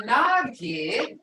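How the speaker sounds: nagi with a slow rising tone; rising tone demo. Shown as a demonstration. Teacher contrasting nagi with a rising tone. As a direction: stretch nagi and lift it. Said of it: "Listen to the tone now".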